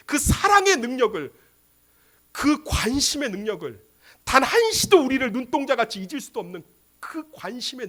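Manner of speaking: forceful pulpit appeal; impassioned preaching. Acted. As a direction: press each phrase with fervor.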